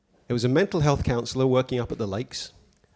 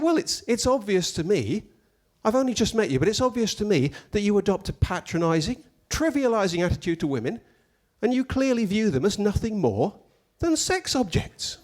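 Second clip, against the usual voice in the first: lecturing professor; 7 semitones higher than usual. Retold or imitated.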